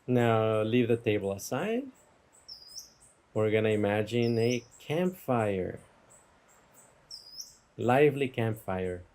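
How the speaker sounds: unhurried meditation guide, long pauses; guided meditation. Real, not acted. Teacher guiding listeners from table to campfire, guided meditation. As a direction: give each image room to settle. Leads a guided imagery exercise.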